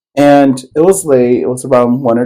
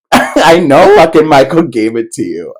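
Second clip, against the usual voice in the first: laughing through it; 4 semitones higher, 4 dB louder than usual. Retold or imitated. Laughs while retelling the fight.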